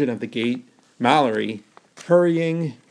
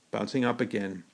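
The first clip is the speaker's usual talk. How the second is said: usual speaking voice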